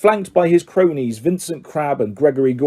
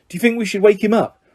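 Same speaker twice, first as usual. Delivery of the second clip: awkward; 7 semitones higher, faster than usual. A narrator's reading. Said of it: "Ron asked awkwardly".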